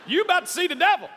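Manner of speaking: high, loud fed-up mom; mock mom threat. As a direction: threaten like a mom at her limit. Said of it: "have ever said".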